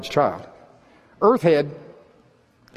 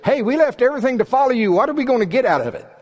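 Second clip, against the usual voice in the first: high, raised-voice indignant demand; blunt demanding Peter; 11 semitones higher, 4 dB louder, faster than usual. Acted. Disciple demanding what they get for following, indignant. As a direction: blurt it out as a brash complaint. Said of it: "and Peter just says".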